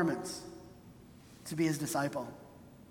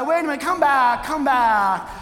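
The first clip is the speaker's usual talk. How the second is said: loud, hurried plea to come back; a pretend Jesus calling loudly after the departing man; pleading call; 2 semitones higher, 5 dB louder than usual. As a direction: call after him, bargaining anxiously. Imagined Jesus chasing the man.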